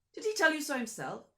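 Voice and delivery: high, loud interrogation; pressing question. Acted. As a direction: pin him down. Count questions driver.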